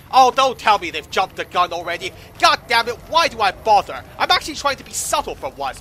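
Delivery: loud, fed-up complaint; exasperated outburst. Real, not acted. Player finding the troopers jumped the gun, exasperated. Player finds plan already spoiled.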